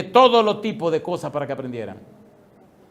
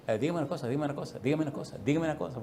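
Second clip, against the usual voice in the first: repetitive professor; 6 dB quieter, faster than usual. Retold or imitated. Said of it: "porque él repetía así".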